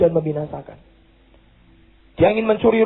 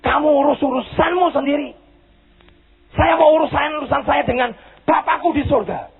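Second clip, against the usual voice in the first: stern acted rebuke, pitched up; heated, higher-pitched scolding; angry rebuke; 5 semitones higher than usual. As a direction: rebuke unbelief as the angry apostle. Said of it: "rasul ini marah. Dia hardik".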